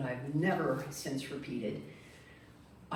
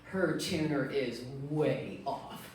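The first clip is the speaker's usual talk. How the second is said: giggling. Retold or imitated. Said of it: "I'm giggling the whole way going".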